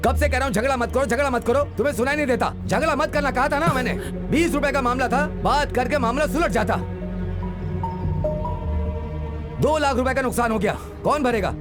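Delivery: high, exasperated telling-off; angry scolding. Acted. Blaming them for the two-lakh loss, angry scolding. Scolding over fight and damages.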